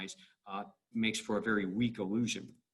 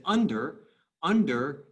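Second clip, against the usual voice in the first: under as UN-der, first syllable strong; stress on first syllable; 2 semitones higher, 4 dB louder, slower than usual. Shown as a demonstration. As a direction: punch the un- of under. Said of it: "because it's strong, weak".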